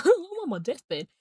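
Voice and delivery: high, loud mock lament; mock deathbed wail. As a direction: put on a dramatic deathbed cry. Mock wail after a laugh.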